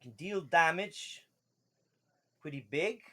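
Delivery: lightly voiced fish merchant making a pitch; a hint of a fishy salesman; fish man merchant. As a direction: present rare wares, phrase by phrase. Game master pitches sword as merchant.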